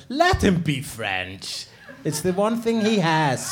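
slow, drawn-out mock plea; lightly acted, slow. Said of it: "and I said".

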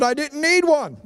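high Southern comeback; imitated Billy Bob. Friend answering the long-winded pastor, high comeback. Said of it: "He said".

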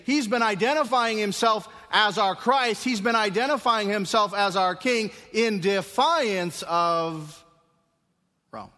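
high, loud, slowing accusation; loud accusing voice. Acted. Sanhedrin accusing Jesus before Pilate, loud and high. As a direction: hurl the charge at Pilate.

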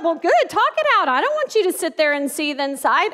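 husband's reply. Retold or imitated. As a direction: play the husband agreeing brightly. Husband voiced in retold story.

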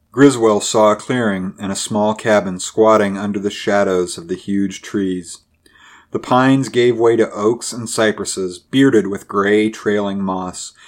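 ordinary delivery

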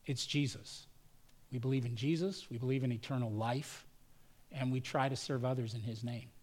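sincere letter reading. Retold or imitated. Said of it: "it went like this".

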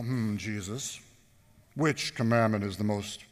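mock learned scholar. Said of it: "sophisticated, educated people".

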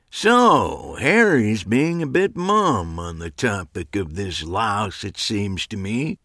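put-on gruff old magician teasing; lightly voiced old man needling his friend. Abe teasing Harry.

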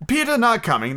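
high-pitched, puzzled question; lightly acted bewilderment; blank disbelief. A narrator's reading. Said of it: "They gazed blankly".

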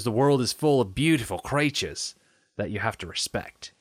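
lightly put-on Australian accent; a hint of Australian wildlife presenter; Steve Irwin. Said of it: "It's pretty good".

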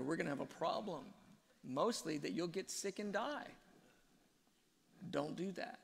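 lightly voiced doting father, pitched a little up; gentle fatherly correction. Father correcting a child who eats moldy grapes, kindly firm.

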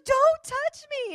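high, loud, drawn-out retold yell; hammed-up cry to back off; alarmed yell. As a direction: imitate her recoiling in a shout. Retold panicked rejection of touch.

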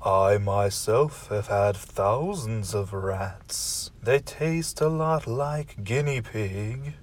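a stately low butler, taking his time; deep butler voice. Acted. Host's butler character speaks.

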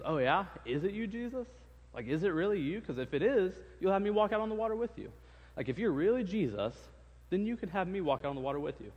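mouthy disciple calling Jesus out; a lightly voiced, cocky Peter. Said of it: "he's got a big mouth".

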